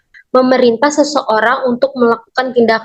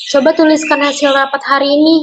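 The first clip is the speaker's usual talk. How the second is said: "Coba tuliskan" as a slightly raised request; command intonation; 3 semitones higher, faster than usual. Shown as a demonstration. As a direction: lift the whole request a little. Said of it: "memiliki intonasi untuk memerintah sehingga memiliki nada suara yang naik". (intonasi permintaan dengan nada agak naik)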